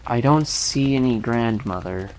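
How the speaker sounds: put-on low, gruff boy miner; rather gruff. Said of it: "answered Cuddy rather gruffly".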